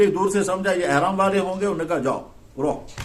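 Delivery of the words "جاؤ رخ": slow, low and soft, the Arab guard waving them on; Arab policeman. Retold or imitated. Checkpoint policeman lets the disguised couple through, slow and low. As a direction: drawl "جاؤ، رخ" like a relaxed Arab checkpoint officer. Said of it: "عرب کے لوگ رخ کہتے ہیں".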